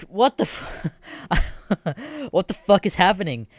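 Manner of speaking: high, drawn-out incredulous what-the, breaking into a laugh; can't believe the login loop again; baffled disbelief. Retold or imitated. Stuck in a login loop, high baffled disbelief. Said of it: "And I'm like".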